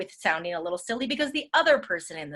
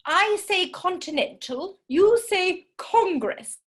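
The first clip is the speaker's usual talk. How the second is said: high, slow sing-song silly voice; hammed-up game-show call; 8 semitones higher, 4 dB louder, slower than usual. Shown as a demonstration. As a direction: stretch each word out playfully. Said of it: "use a different voice".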